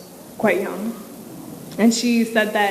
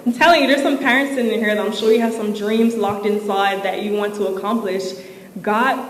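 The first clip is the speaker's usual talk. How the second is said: ordinary talk, nothing marked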